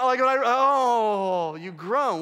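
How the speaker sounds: drawn-out groaning sigh; groan demo. Shown as a demonstration. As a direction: groan it out slowly.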